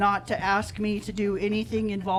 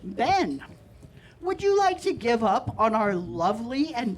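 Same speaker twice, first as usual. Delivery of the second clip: mock sarcastic. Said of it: "some sarcasm in this question".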